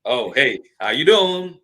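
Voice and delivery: flirty greeting. Retold or imitated. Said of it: "I'd be like".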